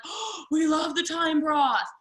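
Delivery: slow, gushing customer voice; a hammed-up fan of the broth; mock customer gush. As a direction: play the thrilled customer, drawn out.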